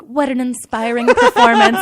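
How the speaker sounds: high, loud mock admiration; teasing praise. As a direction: gush with exaggerated praise to tease a coworker. Waiters tease the embarrassed singer.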